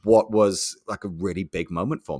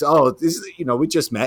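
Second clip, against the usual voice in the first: mock grilling; 7 semitones higher, 5 dB louder, faster than usual. Mimicking blunt rep grilling him.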